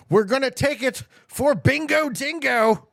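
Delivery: high, rousing battle call; rallying cry. Pretend. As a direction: call it out high like a team cheer. Rallying cry to take Australia.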